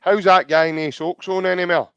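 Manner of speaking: lightly imitating a tipsy mate's nagging voice; a hint of a boozy friend teasing; mock drunk voice. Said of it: "then you hear that voice going".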